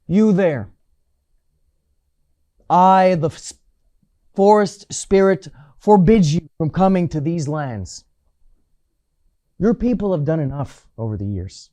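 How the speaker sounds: lightly voiced forest spirit, loud and commanding. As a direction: proclaim it loudly as a forest spirit, without much disguise. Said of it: "I heard a voice coming from it".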